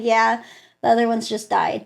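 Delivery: understated, matter-of-fact numb reply. Retold or imitated. Patient telling doctor about losses, numb. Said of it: "that's how I talked".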